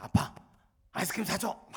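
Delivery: lightly voiced bold child's demand; a hint of a small boy asking boldly; confident child demand. Little son asking daddy for ice cream, light bold demand. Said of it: "너무 당당하게".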